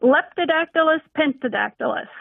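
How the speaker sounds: "Leptodactylus pentadactylus" rolled out with relish, every beat clear; savoring recital. Shown as a demonstration. Biology teacher repeating her favorite word on request, savoring it. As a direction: roll the frog name off the tongue. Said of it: "Say it again".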